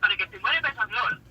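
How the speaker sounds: automated hotline menu voice; robotic phone menu recording. Acted. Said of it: "the one they really wanna hear is this".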